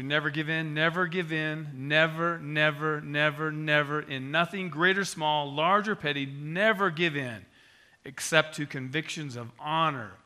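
rally a nation at war; Churchill's defiant speech. Retold or imitated. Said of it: "He said to his country".

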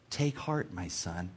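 soft, intimate comfort; gentle reassurance. A narrator's reading. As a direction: speak softly, as to a son. Jesus comforting the paralytic, read aloud.

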